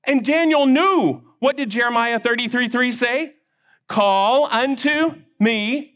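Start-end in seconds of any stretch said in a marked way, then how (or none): 3.9-5.9 slow recitation. Shown as a demonstration. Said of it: "say it with me".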